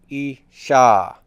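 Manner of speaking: isha with the stress on the final A; stress on the ending. Shown as a demonstration. Teacher showing students final stress on isha. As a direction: press the last syllable of isha. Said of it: "where is the stress on feminine singular endings".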